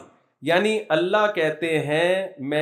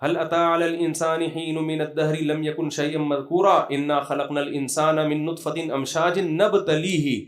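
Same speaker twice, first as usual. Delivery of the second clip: Quran recitation. Acted.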